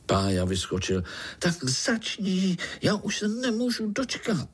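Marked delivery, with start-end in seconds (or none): 1.4-4.5 put-on much higher, impatient child voice; eager little spider. Little Pája begs uncle to start, high eager child voice. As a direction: bounce with eagerness to hear the story.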